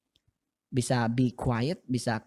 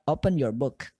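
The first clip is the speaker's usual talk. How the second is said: fast. Shown as a demonstration. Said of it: "Atau kalau cepat".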